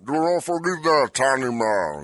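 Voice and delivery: put-on lightly French-accented Andre. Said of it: "more of a French accent".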